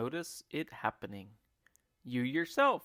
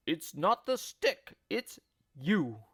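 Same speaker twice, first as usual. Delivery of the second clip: gloating husband, a bit louder; grinning horribly; 4 semitones higher, 3 dB louder than usual. A narrator's reading. Husband taunting his wife, grinning horribly. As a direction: say it with a nasty grin. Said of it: "said Mister Twit, grinning horribly".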